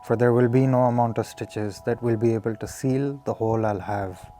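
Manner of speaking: measured recital, pausing between phrases; earnest spoken-verse delivery; poem reading. Acted. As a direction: read your own poem aloud, each phrase starting firm and falling away. Reads own poem aloud.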